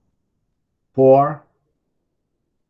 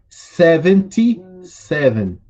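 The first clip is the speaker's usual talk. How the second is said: slow model reading; 3 semitones higher, slower than usual. Shown as a demonstration. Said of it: "vocês podem ir repetindo aí comigo".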